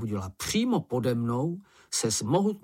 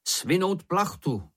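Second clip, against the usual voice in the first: called order; 8 semitones higher, slower than usual. A narrator's reading. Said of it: "zavolal Šňupálek".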